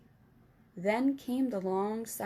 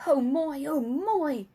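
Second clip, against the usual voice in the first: louder happy exclaiming; delighted; 4 semitones higher, 6 dB louder, slower than usual. Acted. Giant delighting over his jar in front of Sophie. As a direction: savour the prize aloud.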